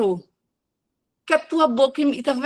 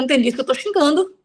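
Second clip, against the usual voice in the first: ordinary delivery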